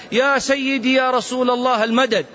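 mock pleading cry; mock plea. Mocking people calling on Prophet.

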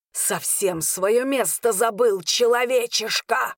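slow, venomous hissed contempt; snake-like hiss. A narrator's reading. Arvin belittles his human cousin, hissing like a snake. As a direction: draw the insult out, hissing and rising. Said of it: "зашипел Арвин змеёй".

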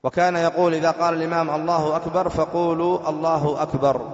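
measured recitation on a level tone; formal, even-toned reading; reading the text aloud. Real, not acted. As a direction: read it out formally from the book.

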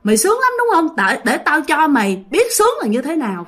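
high, taunting spirit sneering at its victim; menacing ghost voice. Retold or imitated. Ghost taunting the sleeping girl, high mocking sneer.

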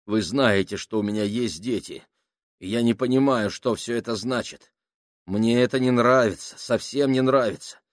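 nervous plea building to a frantic, high, loud cry; panicked pleading. Acted. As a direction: start uneasy, end in near-hysterical panic. Panicking sailor pleads with crew.

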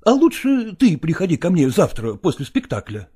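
ordinary delivery

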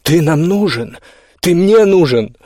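pleading outburst; exclaiming. A narrator's reading. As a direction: build from protest to a desperate shout. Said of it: "воскликнула Иоганна".

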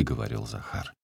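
ordinary delivery

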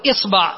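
إصبع said isba', i then a; short i, then open a in إصبع; kasra on the hamza. Shown as a demonstration. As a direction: demonstrate إصبع as IS-BA'. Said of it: "ثم تأتي إلى الكسرة تقول".

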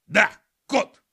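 high, loud little undead skunk; skunk agreeing. Acted. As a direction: chime in eagerly. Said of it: "поддержал Пук".

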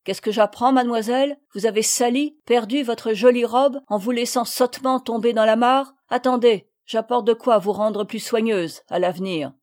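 a touch of loud stern scolding; furious scolding. Acted. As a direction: scold the girl harshly. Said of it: "L'apparition furieuse".

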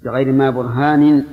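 برهان ending in "-nin", with an i vowel; kasra ending on برهان. Shown as a demonstration. Teacher explaining the case ending, برهان said "burhanin". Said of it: "هي أصل برهان بالكسر".

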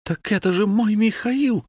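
recognising her man with joy; joyful exclamation. A narrator's reading. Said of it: "воскликнула Василиса".

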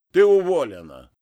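loud, cold dismissal; curt firing. Acted. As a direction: cut her off sharply. Boss fires Oksana. (громко и холодно: ты уволена)

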